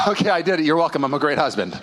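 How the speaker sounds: grudging sigh, then self-satisfied; terrible attitude. Acted. Husband after an outing with his wife, grudgingly. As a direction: sigh as if the chore is finally done. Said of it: "did it with a terrible attitude".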